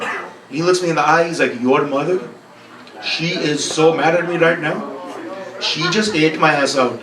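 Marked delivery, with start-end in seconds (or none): 1.6-7.0 put-on slow, deliberate accented English as dad; immigrant dad's accent. Comic's dad complaining about mom to his son, accented English. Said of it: "a dad who doesn't speak very good English".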